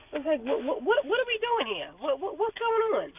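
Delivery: a confused onlooker asking what is going on; baffled what. Retold or imitated. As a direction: act out total bewilderment. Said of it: "some things you just have to be like".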